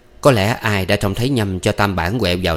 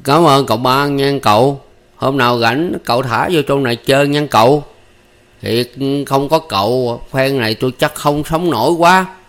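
higher, louder grateful chatter; loud hearty talk; 6 semitones higher, 4 dB louder than usual. A narrator's reading. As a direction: boom out thanks like an old friend. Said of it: "cười nói bô bô".

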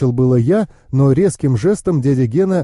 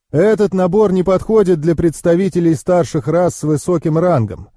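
higher-pitched knowing uncle; explaining uncle; 4 semitones higher than usual. Acted.

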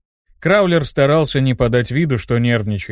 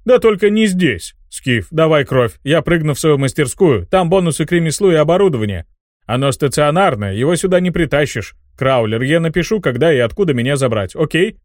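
fast chirpy excited tinkerer; 3 semitones higher than usual. Acted. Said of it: "пропищал гном".

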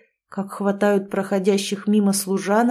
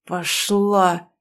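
hissed anger. Acted. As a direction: spit it out coldly. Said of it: "цедит в ответ Ходборг с непонятной мне шипящей злостью". (шипящая злость)

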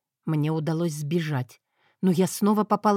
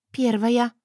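put-on lightly sugary, innocent girl; sweet innocent voice; 5 semitones higher, 3 dB louder than usual. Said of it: "самым милым голосом из своего арсенала".

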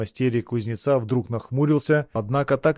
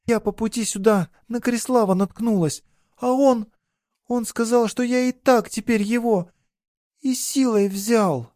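put-on much higher, upset girl's voice, slowing at the end; distraught girl; 11 semitones higher than usual. A narrator's reading. Girl confesses the assault to her lover, distraught. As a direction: she forces out what happened.

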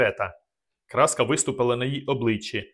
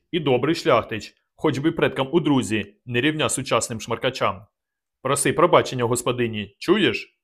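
a raised, booming dressing-down; scolding elder. Acted. Dubatovk scolding Vorona before the guest, raised and booming. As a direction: tear into the young man.

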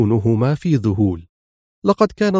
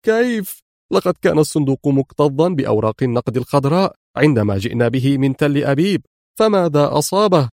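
stunned disbelief; 2 semitones higher than usual. Acted. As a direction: demand how it happened, stunned. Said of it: "هزته المفاجأة حتى النخاع". (ذهول وعدم تصديق)

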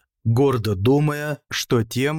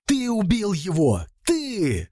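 high-pitched hysterical cry, held back in volume; 8 semitones higher than usual. A narrator's reading. Andrei accuses the killer from afar, hysterical high cry. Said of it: "истерично кричал Андрей издали".

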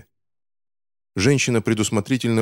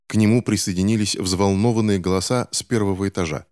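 usual speaking voice

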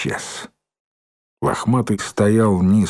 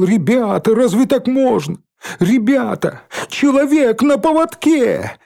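much higher, desperate outcry; crying out; 12 semitones higher than usual. Acted. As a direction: appeal to everyone, frantic. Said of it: "выкрикивал". (отчаянный выкрик)

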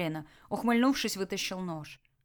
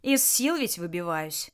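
confiding; slower than usual. Acted. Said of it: "доверительно поведал он".

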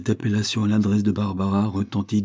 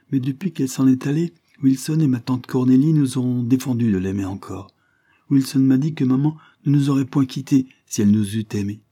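lightly voiced child, higher and louder; a hint of a plaintive little girl; earnest little girl; 5 semitones higher, 5 dB louder than usual. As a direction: confide it with a lifted, childlike voice. Child tells what adults said.

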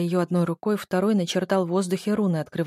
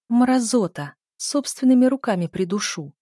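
inner rage; 5 semitones higher, 5 dB louder than usual. Acted. Narrator's furious inner outburst.

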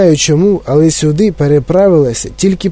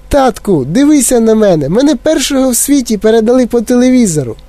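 put-on high little mouse-like boy; squeaking; 8 semitones higher than usual. A narrator's reading. Shrunken boy boasting to his father, squeaking. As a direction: pipe it up as a tiny child. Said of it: "пищав Майк".

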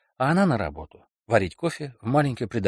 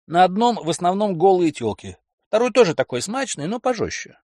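higher, excited bragging man; boastful boyfriend; 9 semitones higher, 6 dB louder than usual. Acted. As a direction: sell the big dream loudly. Kelly voiced.

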